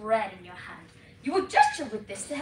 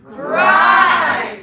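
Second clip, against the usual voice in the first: loud, higher GRIND with Scottish R; Scottish dialect; 5 semitones higher, 15 dB louder than usual. Shown as a demonstration. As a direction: belt out GRIND in broad Scots. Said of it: "Say that with me now".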